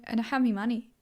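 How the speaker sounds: "me" for "my", British style; British accent. Shown as a demonstration. Showing off an accent she likes, playful British. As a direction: put on a British accent, saying "me money". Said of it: "say me instead of my".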